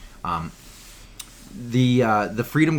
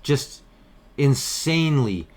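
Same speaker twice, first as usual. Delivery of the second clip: sarcastic; 3 semitones higher, 4 dB louder, slower than usual. Acted. Sarcastic about peaceful protesters.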